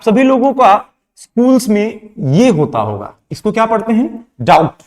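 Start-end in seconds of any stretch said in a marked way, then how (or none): 4.4-4.8 DOUBT said "daut", no B sound; silent B. Shown as a demonstration. Teacher models the word for students, silent B in डाउट. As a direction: say डाउट as "dowt", dropping the B. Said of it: "बी को pronounce नहीं करते हैं".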